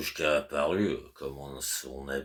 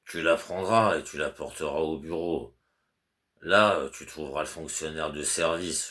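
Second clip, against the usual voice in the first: louder, insistent instructions to a servant; fussy master's orders; 4 dB louder than usual. Acted. Master Goliatkin instructing his servant Petrouchka, louder and insistent. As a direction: spell it out to a sleepy servant.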